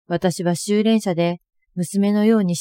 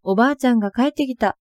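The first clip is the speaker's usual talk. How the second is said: happy cry; 5 semitones higher, faster than usual. Retold or imitated. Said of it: "と喜んでいました".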